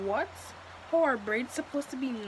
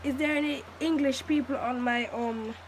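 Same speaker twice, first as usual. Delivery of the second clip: put-on British accent; 2 semitones higher than usual. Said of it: "like a British".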